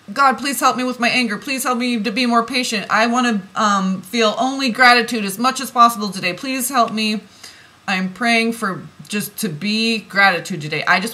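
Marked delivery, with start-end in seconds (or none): 0.1-7.2 quoted prayer. Retold or imitated. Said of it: "I pray for".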